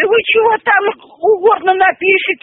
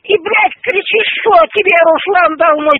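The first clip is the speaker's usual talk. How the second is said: raised, higher furious scolding; angry shouting; 5 semitones higher than usual. Real, not acted. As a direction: yell the accusation back at him. Angry row on the phone. (громкий возмущённый крик)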